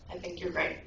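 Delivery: lightly imitated echo, low and soft; echo reply. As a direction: send it back as a faint echo. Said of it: "the voice again responds".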